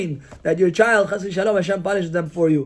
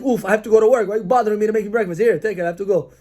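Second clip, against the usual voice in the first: annoyed huff; faster than usual. Retold or imitated. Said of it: "a face that's like".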